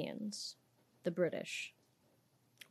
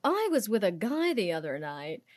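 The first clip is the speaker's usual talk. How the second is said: Samantha. Retold or imitated. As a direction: imitate her affected, British-sounding American delivery. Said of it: "that's how she talks".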